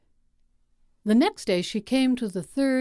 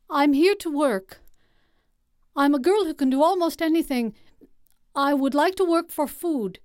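put-on eager young girl; 6 semitones higher than usual. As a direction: plead brightly like a hungry girl. Girl pleading for work.

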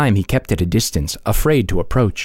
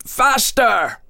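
higher urgent howl at the driver; 11 semitones higher, slower than usual. Acted. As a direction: urge the horse on, frantic. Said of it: "his voice would howl".

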